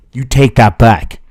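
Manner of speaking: hammed-up indignant shout; mock outrage. Streamer playfully shouting down a chatter's accusation, mock outrage. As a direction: bark it back in playful offence.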